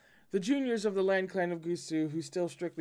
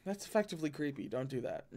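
unnerved; 5 dB quieter, faster than usual. Real, not acted. Reader reacts quietly, unnerved.

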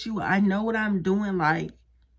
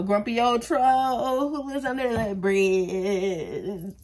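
slow, dragged-out grumpy troll voice; grumpy old troll; much slower than usual. Pretend. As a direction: growl it out like a troll under a bridge. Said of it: "I look like a".

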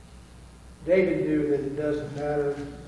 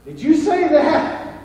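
higher, louder, slow and rattled; a jumpy burglar demanding an answer; startled hiss; 10 semitones higher, 9 dB louder, slower than usual. Acted. Startled burglar questions the parrot, high and rattled. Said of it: "He hissed at the parrot".

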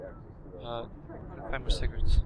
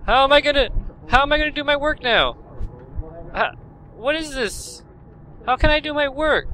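high, louder desperate pleading; panicked whine; 11 semitones higher, 3 dB louder than usual. Real, not acted. Worker fretting he can't do his job, panicked whine.

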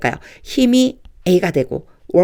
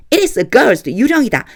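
mild fright; 6 semitones higher than usual. Shown as a demonstration. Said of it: "요 정도?".

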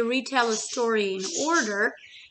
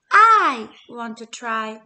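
louder, slow eager little voice; peeping chick; 10 dB louder, slower than usual. Acted. Little Chick asking Hen to let her try, louder slow. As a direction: pipe up bravely. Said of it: "Little Chick peeped".

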